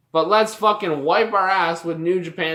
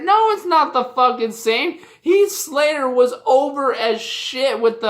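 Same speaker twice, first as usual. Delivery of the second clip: higher, heated denial; indignant rebuttal; 5 semitones higher than usual. Real, not acted. Fan answering people who compare title wins, indignant. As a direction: shoot the comparison down hotly.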